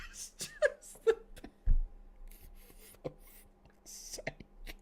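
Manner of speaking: high, helpless laughing; wheezing laughter. Real, not acted. Streamer breaking down laughing at the quote. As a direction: crack up mid-sentence. Laughing after his impression.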